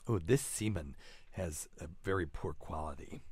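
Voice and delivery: lightly voiced wine-tasting snob; sommelier voice. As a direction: savour each word like a wine critic. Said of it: "That was my sommelier voice".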